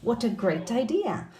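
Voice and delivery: "What a great idea" with What joined to a; linked words. Shown as a demonstration. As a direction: run the t of What into a. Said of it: "focus here ... on the linking".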